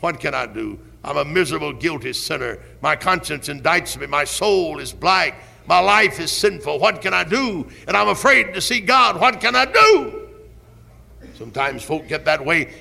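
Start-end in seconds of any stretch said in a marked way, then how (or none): 0.0-10.2 despairing cry. Retold or imitated. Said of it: "wrung your hands and cried".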